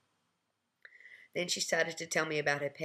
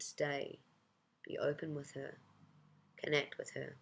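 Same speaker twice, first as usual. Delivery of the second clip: gentle inner heart; 7 dB quieter than usual. Acted. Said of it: "But my heart said".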